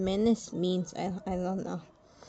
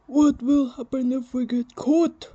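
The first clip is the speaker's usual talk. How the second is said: worried question; 4 semitones higher, 7 dB louder than usual. Acted. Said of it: "he asked".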